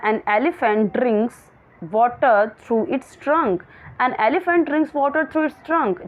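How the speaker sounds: slow, clear classroom read; slow reading aloud. Shown as a demonstration. Teacher reading the question to her pupils slowly. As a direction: read each word out very slowly.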